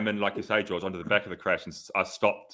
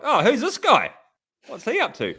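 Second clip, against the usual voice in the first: high mock-innocent "who's this guy", pitched way up; mock teasing voice; 5 dB louder than usual. Teasing the fiancée about Pogacar, in a mock high voice. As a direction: tease her, playing dumb in a high voice. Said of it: "Just taking the piss a bit".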